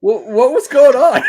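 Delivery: laughing. Real, not acted. Laughing asking muted guest.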